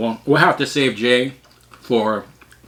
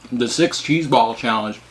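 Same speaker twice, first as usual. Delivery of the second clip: talking while drooling; slower than usual. Real, not acted. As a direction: wet mouth, words through drool. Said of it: "sorry, I'm a little drooly".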